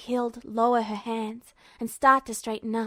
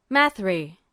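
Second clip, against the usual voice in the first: calm rumble; 5 semitones lower than usual. Acted. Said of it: "strangely calm voice that rumbled".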